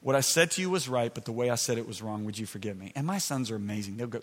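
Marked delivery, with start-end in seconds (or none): 0.0-2.9 low, softening retold apology; contrite apology. Father apologising to his son, quietly contrite. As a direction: re-enact asking forgiveness, dropping soft. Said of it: "So I go back to my son".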